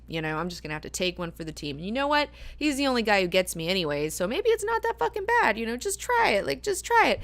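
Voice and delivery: retelling a character psyching herself up; resigned self-talk. Retold or imitated. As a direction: talk yourself into it, lightly voiced. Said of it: "there's a part of her that's like".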